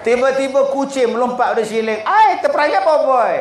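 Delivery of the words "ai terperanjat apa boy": high startled yelp at the cat; startled cry. Retold or imitated. Man startled by the cat, high surprised yelp. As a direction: jump and squeak in fright.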